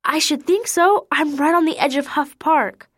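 put-on high, fluttery, fussing old lady; a flustered lady clucking over the poor animal; fussy lady caller. A narrator's reading. Caller to Keisha about the deer, high fussy lady voice.

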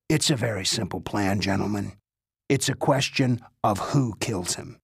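a hint of a cool old spy chief; old spymaster voice.

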